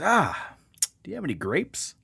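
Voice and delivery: hammed-up duck asking again. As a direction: pipe up like an innocent little duck. Joke, duck asks again.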